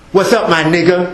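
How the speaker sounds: casual slang greeting, mocking the youth; lightly voiced young guy on the street. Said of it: "talk like that right now".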